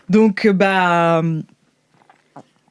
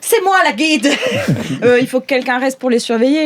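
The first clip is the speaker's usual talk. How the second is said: Branmar speaking; 4 semitones higher than usual. Acted. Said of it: "il fait".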